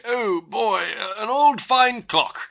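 lightly voiced old British gentleman; a touch of genteel old Englishman, drawing out the last words; genteel old British man. Clock expert admiring an old clock, lightly voiced genteel British man. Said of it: "very genteel old British man".

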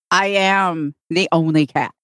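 slow, deliberate cat declaration; imperious cat. Pretend. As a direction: speak for a cat who rules the house, slowly. Voicing the cat's attitude.

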